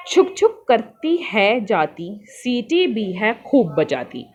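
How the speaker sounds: slow, rhythmic rhyme reading; poem recital. Shown as a demonstration. Teacher reads a train rhyme to pupils, slow sing-song. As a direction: recite it like a children's rhyme, slowly. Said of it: "इस पंक्ति से".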